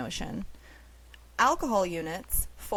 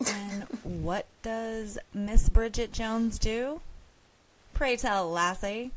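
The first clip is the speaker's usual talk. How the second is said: mock Scottish; 3 semitones higher, slower than usual. Playful mock Scottish question.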